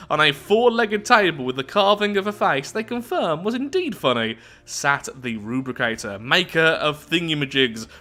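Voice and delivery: theatrical storybook read-out; story narration. A narrator's reading. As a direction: narrate it with big, swooping emphasis. Reads the event story aloud.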